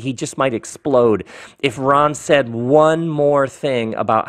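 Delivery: measured, lightly hammed-up rhyming narration; ridiculous story-reading voice. Author tells of Don and Ron's rivalry, ridiculous story-reading voice. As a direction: lean on the rhymes, drawing out key words. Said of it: "my best ridiculous story reading voice".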